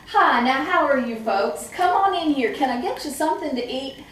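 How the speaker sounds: a hint of a backslapping mayor; father as mayor greeting folks at the door, booming; hearty greeter. Dad greeting visitors, politician.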